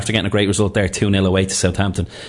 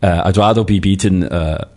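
hammed-up German accent, Klopp style; lightly put-on German manager voice; slower than usual. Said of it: "I'll get into character".

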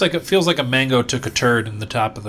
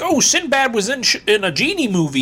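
mock confused person; 10 semitones higher, 3 dB louder than usual. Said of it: "everyone was like".

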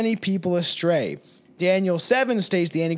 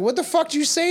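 retold confrontation; 10 semitones higher, faster than usual. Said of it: "And I was like".

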